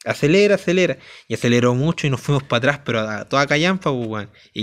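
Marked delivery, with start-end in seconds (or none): 0.0-1.0 urgent shouting. Retold or imitated. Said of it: "Entonces yo le dije".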